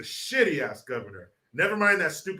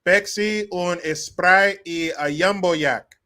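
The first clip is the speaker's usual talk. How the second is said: louder mock Mexican accent, "Pepsi" as "Peksi"; imitated Mexican accent; 5 semitones higher, 5 dB louder, slower than usual. Migrant ordering fast food, imitated Mexican accent. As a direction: order in a put-on Spanish accent. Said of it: "And they say Pepsi".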